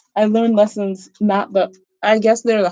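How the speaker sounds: stammering.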